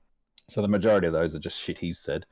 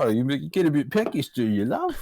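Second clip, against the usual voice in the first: mock sex worker voice; 8 semitones higher than usual. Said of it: "And you go".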